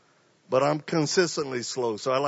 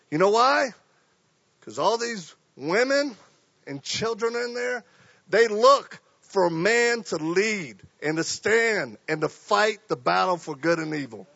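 fervent preaching; 2 semitones higher than usual. Acted. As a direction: preach it to the crowd. Preaching at full force.

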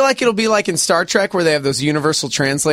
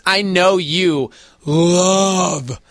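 teasing; 3 semitones lower, slower than usual. Real, not acted. Teasing the introvert co-host.

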